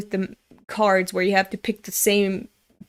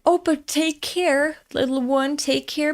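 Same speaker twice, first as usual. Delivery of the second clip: higher-pitched, gentle warning to a little one; cautioning a child; 6 semitones higher than usual. Retold or imitated. Adult warning a little boy on a slippery entrance, gently cautioning. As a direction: coo a careful warning up high.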